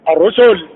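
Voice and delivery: الرسل with a doubled, thick R; heavy doubled ru. Shown as a demonstration. Teacher shows shadda with damma, heavy doubled R in الرسل. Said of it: "تفخيم".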